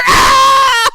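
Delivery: loud, high hammed-up scream; high comic shriek; mock scream. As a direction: scream as if doused, played for laughs. Acting Clint doused in ticks.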